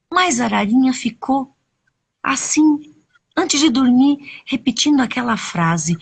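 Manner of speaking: put-on animated telling of a children's tale; expressive storyteller with dramatic pauses; story narration. A narrator's reading. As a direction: stretch key words, lifting the pitch as events build.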